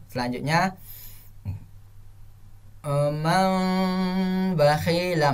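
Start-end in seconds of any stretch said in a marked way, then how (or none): 3.1-5.3 slow "man bakhila" with a stretched hum; slow, long-held "man bakhila"; incorrect recitation. Shown as a demonstration. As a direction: draw out "man" before "bakhila", slightly off. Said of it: "masih kurang benar".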